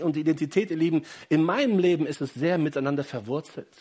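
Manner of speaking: fervent preaching. Acted. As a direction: preach it out to the whole church.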